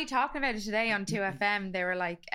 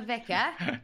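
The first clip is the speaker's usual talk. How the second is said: slow, drawn-out posh English; posh English accent. Shown as a demonstration. Trying out the posh end, slow English accent. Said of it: "going for the posh end of things".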